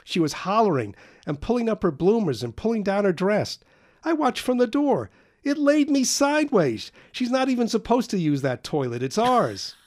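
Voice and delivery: high, loud, giddy storytelling; gleeful retelling. Acted. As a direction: gloat over the neighbour's mishap. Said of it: "said Carl".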